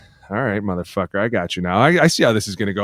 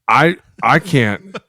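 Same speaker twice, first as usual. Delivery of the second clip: mock hurting; 3 dB louder, slower than usual. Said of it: "hobbling around, limping around".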